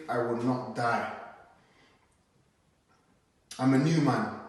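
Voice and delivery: rhythmic, emphatic poem recital; spoken word poem. Acted. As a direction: perform it like a slam poem on stage.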